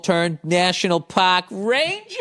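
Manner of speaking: put-on slow Boston accent, rising on the end; mock Boston drawl. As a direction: stretch it out in a Massachusetts accent. Drops R's after masshole mention.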